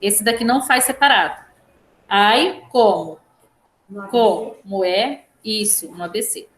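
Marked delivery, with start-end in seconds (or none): 2.1-3.2 "Ai" held alone, then "como" after a break; syllable by syllable. Shown as a demonstration. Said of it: "vocês só vão juntar a sílaba". 4.1-5.2 "Como é" slowly split as co, moé; syllable division. Shown as a demonstration. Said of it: "juntar a sílaba como é".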